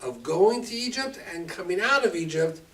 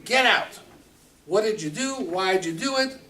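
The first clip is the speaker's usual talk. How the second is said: huffy Pharaoh; 3 semitones higher, 4 dB louder than usual. Acted. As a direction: puff up and order him out. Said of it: "Paro gets huff, huffy and puffy".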